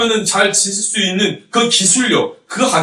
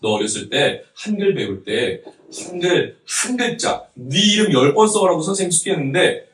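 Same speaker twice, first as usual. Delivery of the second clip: imitating a teasing mother, building louder; mock-scolding, stretching the crying bits; mother's teasing; 2 semitones higher, 5 dB louder than usual. Preacher imitates mother teasing about childhood writing lessons, playful mock scolding. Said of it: "어머니가 저를 맨날 놀리실 때".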